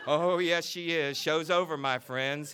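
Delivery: preacher bellowing to end the show. Acted. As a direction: boom it over the crowd. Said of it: "he bellowed".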